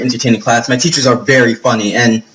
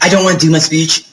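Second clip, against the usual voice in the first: lightly sassy imitation of a student; sassy retelling; 2 semitones higher than usual. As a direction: quote her with a touch of sass. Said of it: "I'm just very sassy because I'm me".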